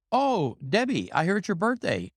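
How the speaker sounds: mock-suave Rick. Rick's greeting quoted.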